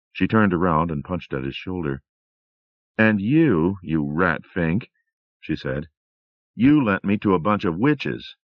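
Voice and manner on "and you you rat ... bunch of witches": a lightly voiced wife teasing; Rosemary, mock accusing.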